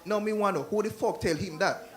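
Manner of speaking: Jamaican patois comeback; a hint of a Jamaican accent. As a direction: snap back in a Jamaican accent. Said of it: "the Jamaican accent".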